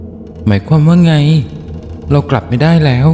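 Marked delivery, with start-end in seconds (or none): 0.0-1.1 higher, alarmed question; alarmed character voice. Acted. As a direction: voice the character's shock at bad news. รินตกใจเมื่อรู้ว่ากลับไม่ได้. (เสียงตกใจ สูงขึ้น)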